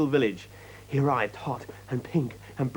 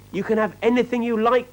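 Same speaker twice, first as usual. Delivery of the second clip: desperate plea; 10 semitones higher, 4 dB louder than usual. A narrator's reading. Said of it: "cried Peter".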